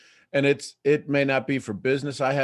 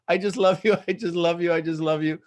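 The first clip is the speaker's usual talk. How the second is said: lightly imitated gushing friend, starting loud; a hint of her excitable, repeated affection; Amy; 4 semitones higher, 3 dB louder, faster than usual. Showing listeners how this woman talks, lightly imitated gushing. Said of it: "This is how this woman talks".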